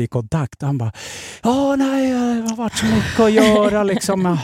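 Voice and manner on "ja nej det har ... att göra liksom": high, breezy put-on voice of the friend; imitating his airy excuse; mock casual brush-off. Friend brushing off the call in a breezy voice. Friend's evasive reply on phone.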